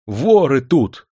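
loud, high, drawn-out warning; alarmed cry. A narrator's reading. Sergeant warns the waking major of attackers, alarmed. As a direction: sound the alarm.

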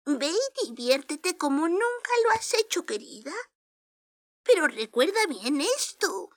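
put-on sweet old lady. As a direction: gently hurry her along. Fairy godmother speaks.

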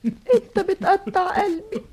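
slow, crying plea; tearful plea. Acted. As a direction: let the words break with tears. (رجاء باكٍ بطيء)

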